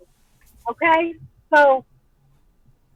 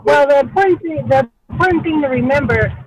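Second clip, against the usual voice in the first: bad connection; 4 dB louder than usual. Real, not acted. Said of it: "Lord, you broke up".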